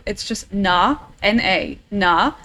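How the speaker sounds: "na" said short and open, spelled out as N A; a clipped German "na", then spell it; German greeting "na". Shown as a demonstration. Teaching a friend the German greeting, short "na". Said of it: "there's a word in German".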